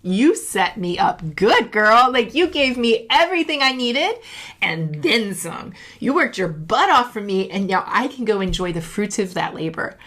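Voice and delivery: bursting with pride and gratitude; proud future self. Pretend. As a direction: cheer on her younger self. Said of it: "How can fifty-year-old Steph look back and go".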